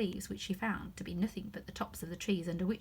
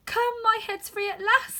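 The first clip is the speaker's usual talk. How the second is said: put-on higher, louder, delighted girl; 13 semitones higher, 8 dB louder than usual. Alice glad her head is free, higher and louder. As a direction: burst out with relief and joy. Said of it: "in a tone of delight".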